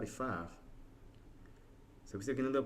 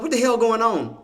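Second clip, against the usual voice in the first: very high, loud baffled outburst; retold bewilderment; 13 semitones higher, 13 dB louder than usual. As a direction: reenact your shocked confusion at full volume. Retells confusion over losing trade.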